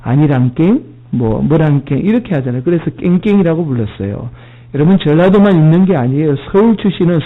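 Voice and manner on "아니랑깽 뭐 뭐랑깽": Jeolla dialect ending. Shown as a demonstration. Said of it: "전라도 사투리 끝에 뭐라고 하죠?".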